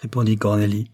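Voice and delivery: a loud, high, firm no; emphatic spinster refusing. A narrator's reading. Cornélie refusing Joyce, loud and firm at first. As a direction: refuse sharply, then settle.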